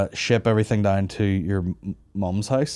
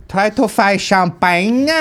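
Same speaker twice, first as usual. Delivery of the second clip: drawn out, higher and louder; slow emphatic; 8 semitones higher, 6 dB louder, much slower than usual. Acted. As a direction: stretch each word for effect.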